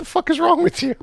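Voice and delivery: high, incredulous swearing; exasperated outburst. Real, not acted. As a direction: blurt it out in disbelief. Outraged at Aunt Becky's plea.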